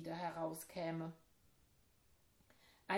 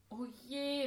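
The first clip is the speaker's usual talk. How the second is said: dismay; 6 semitones higher than usual. Acted. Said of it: "rief ich aus".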